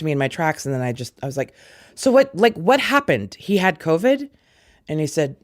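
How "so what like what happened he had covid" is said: recalling her shocked question to her brother; startled question. Retold or imitated. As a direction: ask it like you can't quite believe it. Disbelieving question about brother's illness.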